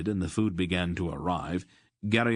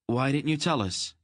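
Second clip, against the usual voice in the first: a touch of hurt accusation, pitched higher; accusing demand; 7 semitones higher than usual. Acted. Geryon confronts his friends about hidden titles, mildly accusing. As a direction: demand it, stung at being kept in the dark. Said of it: "Geryon demanded accusingly".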